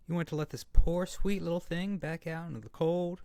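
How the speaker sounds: loud indignant burst that softens; outraged protest. Acted. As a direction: blast the first words, then ease into pity. Arguing to keep the kitten.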